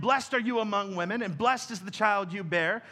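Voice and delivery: loud exclamation. Retold or imitated. Preacher quoting Elizabeth's greeting to Mary, mildly exclaimed. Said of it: "In a loud voice, she exclaimed".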